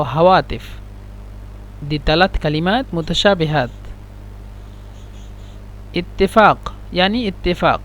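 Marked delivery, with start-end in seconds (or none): 6.0-7.8 اتفاق said /itifaq/, then /itefa/ with the final q dropped; Egyptian pronunciation. Shown as a demonstration. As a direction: show the two ways of saying it. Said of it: "في مصريين هم ينطقون اتفاق".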